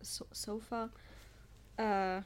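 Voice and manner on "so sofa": unvoiced whisper, softer; hushed little repeat. Real, not acted. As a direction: whisper the word to yourself. Echo of word, whispered.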